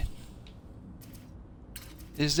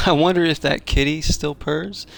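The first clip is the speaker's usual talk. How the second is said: repeating it with a laugh, higher; amused echo, louder, chuckling; 4 semitones higher, 6 dB louder than usual. Retold or imitated. Repeats game line, laughing.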